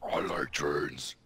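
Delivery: soft slow whisper of a meme line. Pretend. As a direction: breathe it out slowly. Quiet whispered replay of meme.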